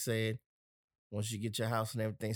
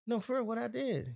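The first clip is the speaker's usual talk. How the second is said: much higher, baffled plea; retold pleading question; 10 semitones higher than usual. Host retells the argument, pleading in disbelief. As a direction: beg to know what went wrong. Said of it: "I'm like".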